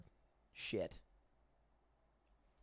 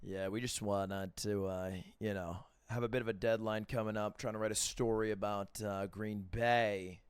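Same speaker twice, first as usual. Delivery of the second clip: reporter voice; 3 semitones lower, 4 dB quieter than usual. Pretend. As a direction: keep the careful newsman tone. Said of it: "you gotta use your reporter voice".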